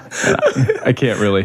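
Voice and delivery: usual speaking voice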